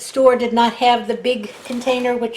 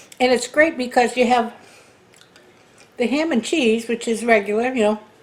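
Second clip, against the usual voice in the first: speaking while still chewing, mouth full. Describing the food while still eating it, talking with mouth full. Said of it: "I'm still chewing".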